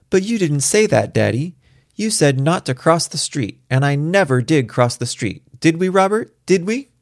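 put-on high, insistent little-girl voice; protesting child. A narrator's reading. Daughter defending herself to Daddy, high and protesting.

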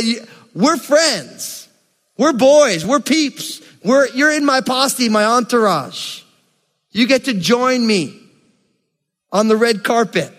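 God as your pal, lightly voiced; lightly voiced God talking like a homie; buddy God.

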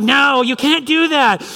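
put-on high, slow urgent child's plea; pleading little daughter. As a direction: beg dad to clap like a panicked kid. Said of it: "And she's like".

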